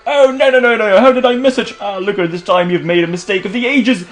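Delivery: lightly voiced theatrical investigator; earnest detective character. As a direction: play a detective piecing it together aloud.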